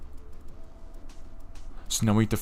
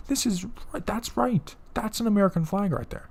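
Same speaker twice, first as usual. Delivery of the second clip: mock approval; 12 semitones higher than usual. Real, not acted. Mock approval of a proper flag.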